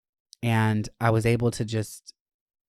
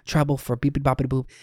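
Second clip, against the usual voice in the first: calm supportive friend; 2 semitones higher than usual. Retold or imitated. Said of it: "the friend's like".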